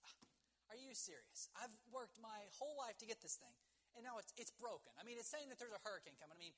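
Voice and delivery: can't-believe-this complaint; frustrated and upset. Acted. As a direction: act out an indignant man who feels cheated. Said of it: "he's all frustrated and mad and upset".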